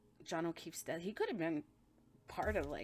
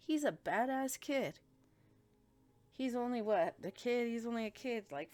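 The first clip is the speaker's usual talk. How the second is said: lecturing officer; 4 semitones higher, 3 dB louder than usual. Retold or imitated. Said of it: "Chris, like".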